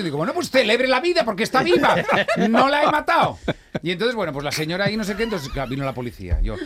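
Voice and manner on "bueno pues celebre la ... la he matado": high, loud comic rant; mock exasperated outburst. Driver loses patience arguing with the lady, loud mock exasperation. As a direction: escalate to a hammed-up shout of self-defence. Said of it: "Y ahí discutiendo".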